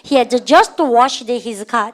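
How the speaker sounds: each word stretched out, clear and deliberate; very slow drill reading. Shown as a demonstration. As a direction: model it slowly for the class to repeat. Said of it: "시작".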